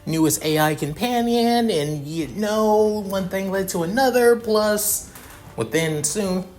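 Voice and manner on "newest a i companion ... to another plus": flustered excuse drifting higher; stuttering excuse. Acted. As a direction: fumble for an excuse, caught out. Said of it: "Calvin basically stuttering a bit".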